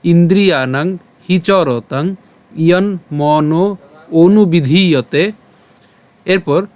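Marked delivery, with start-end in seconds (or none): 0.0-5.3 slow shloka recital in separated phrases; verse recitation. Shown as a demonstration. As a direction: recite slowly for learners, word group by word group. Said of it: "আমি আবার যদি বলি". (থেমে থেমে ধীরে শ্লোক পাঠ)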